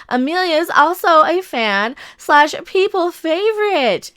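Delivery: mocking Valley Girl reading. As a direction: read it like a ditzy Valley Girl. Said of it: "my Valley Girl mocking voice".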